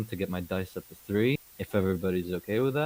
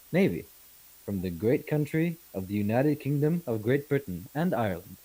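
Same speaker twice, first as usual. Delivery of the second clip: pompous naval officer; 2 semitones higher than usual. Acted. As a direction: announce your rank with ceremony, pitch swooping. Formally introduces himself in character.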